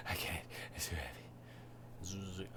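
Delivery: slow, breathy whispered whine; whimpering whisper. Retold or imitated. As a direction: whisper it like a defeated kid. Whiny student reply.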